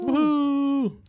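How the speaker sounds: high cheering woohoo; excited whoop. Real, not acted. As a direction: whoop it up, celebrating. Cheering at level ten.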